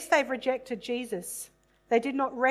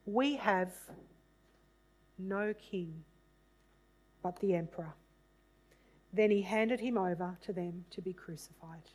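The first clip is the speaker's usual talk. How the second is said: measured, dramatic Bible reading voice; scripture reading; 4 dB louder than usual. A narrator's reading. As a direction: read the passage aloud as solemn scripture. Reads the Passion scripture aloud.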